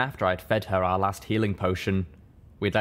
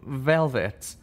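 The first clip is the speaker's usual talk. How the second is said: groaning; 5 semitones higher than usual. A narrator's reading. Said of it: "Calamity groaned".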